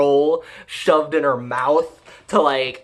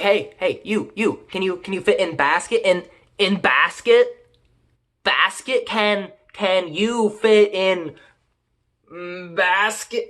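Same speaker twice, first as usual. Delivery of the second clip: put-on talking to a little kid; 3 semitones higher than usual. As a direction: coax her simply like a small child. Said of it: "talking to her like a fucking dog or a little, really little kid".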